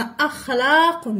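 أخلاق with a distinct glottal a at the start; hamza pronounced. Shown as a demonstration. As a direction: open أخلاق on a clear glottal stop. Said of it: "ضروري كذلك أن ننطق هذه الهمزة".

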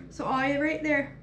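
a playful Maine-Canadian "All right there" with a lifted pitch; Canadian accent. Pretend. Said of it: "That was like a Canadian accent".

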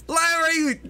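high urgent calls; begging the wounded man to stay down; urgent pleading. Acted. Robber urging the wounded guard to stay down, high and urgent.

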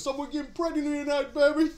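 hammed-up impression, punching the last word; bad Tracy Morgan impression. A fan showing off that voice, bad impression. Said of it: "That's my really bad Tracy Morgan".

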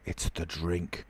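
softly, under the breath; nearly noiseless repetition. A narrator's reading. Dazed tramp repeats it to himself, very quietly. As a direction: say it only to yourself. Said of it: "his lips repeated noiselessly".

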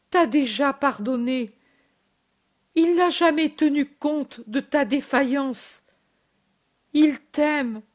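short phrases with pauses between; mother soothes the weeping disciple, breathless; halting, breathless. Acted. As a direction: comfort him between breaths. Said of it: "Marie parle avec des pauses".

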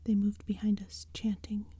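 hushed spooky whisper throughout; whispered storytelling. A narrator's reading. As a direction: breathe the story like a secret. Whispered narration.

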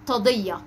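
تضية with a front sound replacing the qaf; child's misarticulation. Shown as a demonstration. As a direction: demonstrate the lisped تضية. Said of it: "بينطقها". (نطق ألدغ لحرف القاف)

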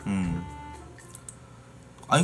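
ordinary talk, nothing marked

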